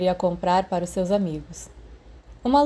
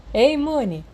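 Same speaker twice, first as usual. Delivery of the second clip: raised, higher friendly hail; cheerful call; 6 semitones higher, 4 dB louder, slower than usual. Acted. James calling out to Remus on the platform, bright raised greeting.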